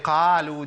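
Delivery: قالوا with a fully open, thin "qaa"; over-open qaf. Shown as a demonstration. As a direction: quote the faulty wide-mouthed قالوا. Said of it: "دي مش قاف،".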